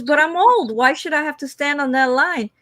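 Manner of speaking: high mock whine; whiny old lady. Lady arguing with the clerk, high whine. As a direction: whine it with entitlement. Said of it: "She goes".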